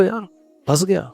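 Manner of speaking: mock complaint to the wife, half-hearted; mock trapped husband. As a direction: whine about being trapped, playfully. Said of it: "اس کو یہ بولو".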